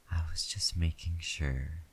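whispering. Acted. Intimate whispered roleplay.

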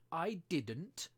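hasty, loud interruption; in a great hurry. A narrator's reading. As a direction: cut in quickly. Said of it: "interrupted in a great hurry".

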